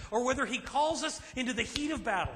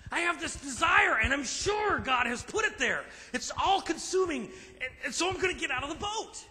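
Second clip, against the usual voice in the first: a hint of a fired-up congregant; eager listener; 5 semitones higher than usual. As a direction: play the impatient zealot. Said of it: "you might say to me".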